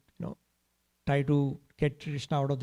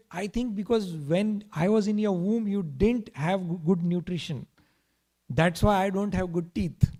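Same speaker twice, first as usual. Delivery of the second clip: put-on higher-pitched little boy's complaint; childish grievance; 3 semitones higher, 4 dB louder than usual. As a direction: blame mother like an aggrieved child. Child blames mother for his teeth.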